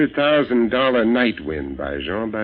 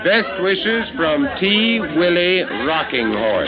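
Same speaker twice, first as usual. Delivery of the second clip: joke autograph; 9 semitones higher, 3 dB louder, slower than usual. Acted. Signing a joke autograph slowly.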